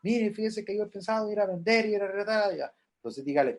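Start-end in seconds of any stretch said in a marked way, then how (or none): 0.0-2.6 a hint of a higher parishioner asking advice; lightly voiced parishioner. Grieving congregant asks pastor about selling things, lightly voiced. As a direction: ask the pastor politely, a little faster. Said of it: "la gente le va a preguntar a usted".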